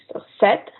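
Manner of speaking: sept said as set, P silent, only the T sounded. Shown as a demonstration. Teacher explaining sept to learners, silent P. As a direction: say sept with no P at all. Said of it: "the P is silent".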